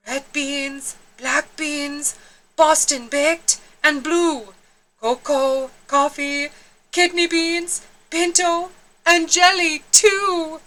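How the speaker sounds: Poquito listing beans. Acted. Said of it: "Poquito continued".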